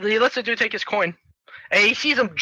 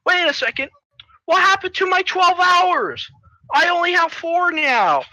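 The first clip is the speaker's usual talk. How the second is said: mock distress; 9 semitones higher than usual. Hero who just lost a life, mock dismay. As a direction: wail over the lost time. Acting Junie losing a life.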